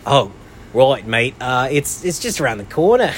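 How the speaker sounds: hammed-up British guy, rising high; bad British accent. British guy giving a tourist directions, exaggerated British accent. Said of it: "I can't do a British accent".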